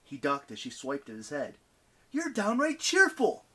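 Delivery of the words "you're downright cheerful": high, slow, stretched-out taunt; drawn-out, high-pitched mock compliment; yelled taunt. A narrator's reading. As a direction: call it out to provoke. Percy keeps taunting the goddess.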